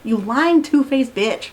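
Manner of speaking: slow, heated insult; fired up. Real, not acted. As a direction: spit it out, angry. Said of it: "I'm getting fired up".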